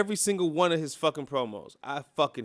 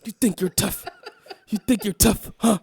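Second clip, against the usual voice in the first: mocking promo quote; 5 semitones higher, 4 dB louder than usual. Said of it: "He said it five different times".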